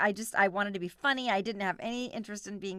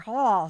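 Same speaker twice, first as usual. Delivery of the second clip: toothy huff; 7 dB louder than usual. Shown as a demonstration. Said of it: "just like".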